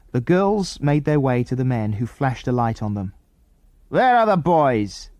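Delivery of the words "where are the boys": slow, pressing question; a hint of a stern interrogator; demanding man. A narrator's reading. Man questions the girls about the missing boys, slow and demanding. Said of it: "demanded the man".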